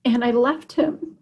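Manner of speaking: high, strained, on the edge of crying; tearful. Real, not acted. Mother telling how she left her son, tearful. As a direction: get through the account while fighting real tears.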